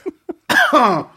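harsh cough from spicy food; coughing fit. Real, not acted. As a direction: cough out the heat. Spicy soup burning throat.

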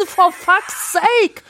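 slow, drawn-out meme slang voice; Funk meme voice. Retold or imitated. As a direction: drag it out like the meme. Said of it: "so zu reden".

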